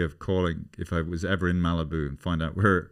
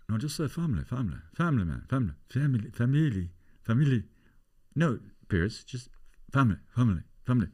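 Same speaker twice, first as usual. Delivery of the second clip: voice coach; 3 semitones higher, faster than usual. Acted. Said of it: "you can tell he's had a voice coach".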